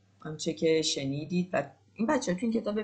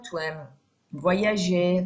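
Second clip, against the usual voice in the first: ordinary talk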